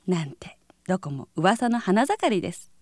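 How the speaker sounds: normal talking voice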